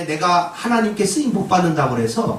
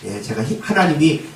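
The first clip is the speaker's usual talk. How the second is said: humble acceptance; 6 semitones lower than usual. Retold or imitated. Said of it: "이래야 되는 거예요".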